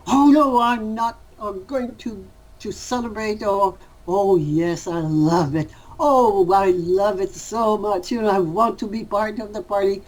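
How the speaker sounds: lightly acted emotional ego, bursting out then rushing; a hint of the fussing ego, quickly rattled off; mock ego voice. Teacher playing the ego to a student, mild mock fuss. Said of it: "The other one say".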